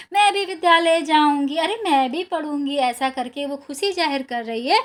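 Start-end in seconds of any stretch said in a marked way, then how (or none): 0.1-2.8 clapping and dancing, bursting with joy; joyful girl. Retold or imitated. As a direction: cheer it out like a delighted little girl. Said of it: "क्या कहते हुए?". (ताली बजाते हुए खुशी से उछलती बच्ची की आवाज़)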